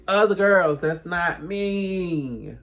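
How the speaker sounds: put-on OTHER GIRLS punched loud, ME drawn out; emphatic retort. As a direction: hit "other girls" hard, stretch "not me". Retold retort to the other woman.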